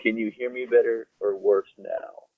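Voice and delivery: muffled bad mic sound. Real, not acted. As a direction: voice through a poor microphone. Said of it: "definitely a lot worse than it was".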